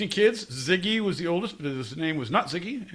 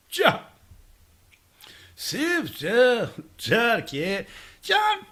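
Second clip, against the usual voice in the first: put-on Jamaican accent; 7 semitones higher, much slower than usual. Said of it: "It's fun when you just make noises".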